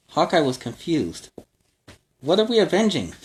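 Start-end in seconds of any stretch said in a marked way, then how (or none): 2.2-3.1 puzzled question. Acted. Confused Hawkeye questions.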